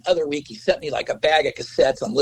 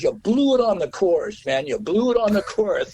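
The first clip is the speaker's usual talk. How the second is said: record guy; 6 semitones higher than usual. Retold or imitated. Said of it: "He goes".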